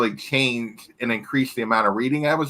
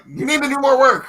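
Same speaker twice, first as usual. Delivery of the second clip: higher, louder mock nagging; mock guilt-trip; 10 semitones higher, 3 dB louder than usual. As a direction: playfully imitate someone piling on work. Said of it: "now you're just guilting me into".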